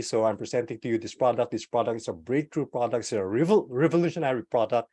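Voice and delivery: brisk everyday pitch delivery; quick product pitch; normal speed. Shown as a demonstration. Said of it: "you can talk normally".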